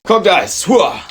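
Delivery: loud, high victory shout; excited cheer. Real, not acted. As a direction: whoop it up over the dice. Celebrating a dice roll.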